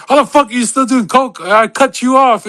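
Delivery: mock angry brother. Twin brother scolding him about the coke, mock exasperated. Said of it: "my twin brother would be like".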